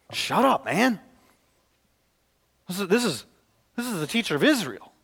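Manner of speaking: a hint of a scornful crowd hushing him; mock scolding, lightly voiced; rebuking crowd. Crowd rebukes the blind beggar, mildly mocking scorn. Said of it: "many rebuked him".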